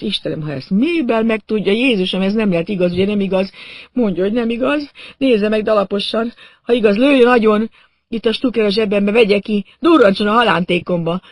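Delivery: high-pitched desperate lament; panicked pleading. A narrator's reading. Injured man dreading his wound, begging, panicked. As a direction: beg frantically, voice pushed high.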